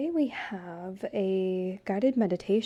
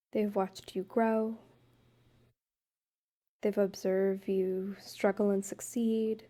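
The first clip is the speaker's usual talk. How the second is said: calm guided-meditation voice with long pauses; unhurried, even-toned meditation leading. Acted. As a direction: gently guide a couple through a meditation, leaving space between phrases. Leads couples' guided meditation.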